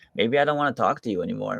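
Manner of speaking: mock sassy, retorting tone. Retelling what a man replied to Laura, imitating a sassy reply. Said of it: "the way he says it is just so sassy".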